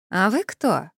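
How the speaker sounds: put-on naive girlish question. A narrator's reading. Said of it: "наивно поинтересовалась старушка".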